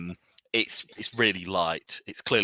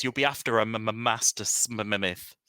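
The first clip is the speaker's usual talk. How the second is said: stuttering merchant; 3 semitones higher than usual. Acted. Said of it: "He has a very selective stutter".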